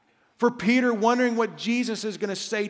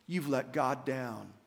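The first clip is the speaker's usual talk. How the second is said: soft, low taunting murmur; quiet enemy whisper; 7 semitones lower, 8 dB quieter, slower than usual. Acted. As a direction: lower the voice like a tempter in the ear. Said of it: "the enemy whispers into your ear".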